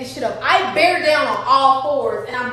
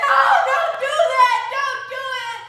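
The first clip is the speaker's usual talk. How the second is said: urgent high command; 10 semitones higher than usual. Retold or imitated. Medic stops her pushing.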